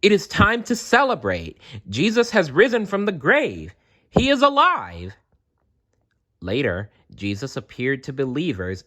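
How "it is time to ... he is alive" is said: much higher, louder jubilant call; joyful shout. Acted. Children shouting from rooftops, joyful high call. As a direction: proclaim it to the whole town. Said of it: "They shouted from the rooftops".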